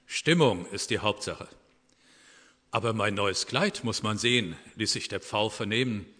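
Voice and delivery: calm storytelling of an animal fable; story reading. A narrator's reading. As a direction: read the fable to the congregation. Reads a Christmas fable aloud. (Fabel vorlesen, erzählend)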